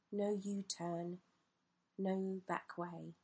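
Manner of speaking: measured poem recital with long pauses; spaced-out, deliberate poetic delivery; poetry reading. A narrator's reading. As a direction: read it as a reflective poem, phrase by phrase.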